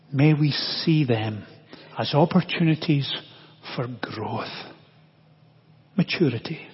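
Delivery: measured prayer with long pauses; closing prayer. Real, not acted. Preacher to the Father for help this week, praying.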